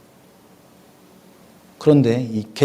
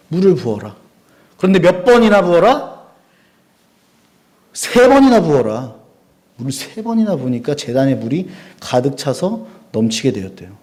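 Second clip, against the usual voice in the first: ordinary delivery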